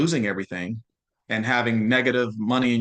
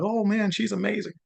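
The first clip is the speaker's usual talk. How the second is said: higher-pitched imitation of an impressed onlooker; mock admiration; 6 semitones higher than usual. Imitating people applauding an achievement, mildly gushing. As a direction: lightly gush like an admirer.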